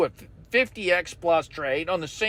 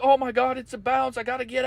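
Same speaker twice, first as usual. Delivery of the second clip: mock panic; 5 semitones higher, faster than usual. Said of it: "You're like".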